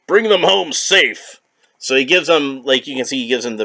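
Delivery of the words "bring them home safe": slow regal king. Acted. King voiced reading comic.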